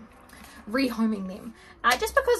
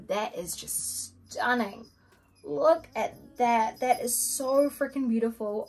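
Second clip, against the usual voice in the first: awed; slower than usual. Real, not acted. Stunned by lipstick color.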